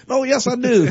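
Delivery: high, laughing put-on politician voice; cracking up mid politician impression; folksy pandering politician. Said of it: "the two whitest politician voices".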